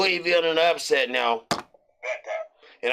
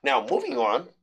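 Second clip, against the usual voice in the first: lightly put-on corporate voice; a hint of boardroom formality; 3 semitones lower than usual. Shown as a demonstration. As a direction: say it like a measured office presenter. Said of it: "let me get my corporate voice in".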